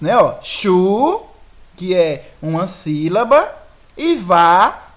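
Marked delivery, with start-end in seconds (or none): 0.4-1.2 "chu" set apart as one syllable; syllable demonstration. Shown as a demonstration. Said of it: "Eles vêm em dois grupos". 4.2-4.9 "vá" set apart, stressed and louder; syllable demonstration. Shown as a demonstration. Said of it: "que é outra sílaba".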